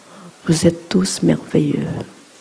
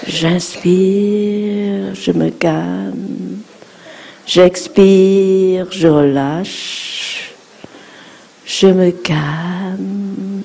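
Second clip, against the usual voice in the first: guided meditation; much slower than usual. Shown as a demonstration. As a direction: draw each phrase out gently, very slow. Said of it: "leads breathing exercise". (voix de méditation guidée, lente et douce)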